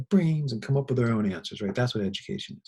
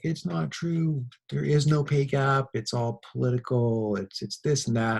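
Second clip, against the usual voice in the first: defiant student; 5 semitones higher, 3 dB louder than usual. Retold or imitated. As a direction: insist stubbornly he is right. Student argues with teacher.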